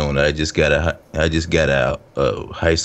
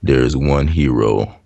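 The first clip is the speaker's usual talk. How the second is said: movie trailer voice; 2 semitones lower than usual. Pretend. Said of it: "can you do a movie trailer voice".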